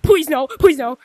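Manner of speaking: rising panicked no, no, no; anguished denial. Real, not acted. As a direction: build from a murmur to loud pleading. Panicking in the game.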